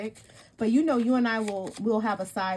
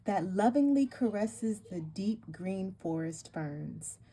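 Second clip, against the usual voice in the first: slow, solemn card reading; warm serene goddess voice; slower than usual. Acted. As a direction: read it like a sacred invocation. Reads goddess card text aloud.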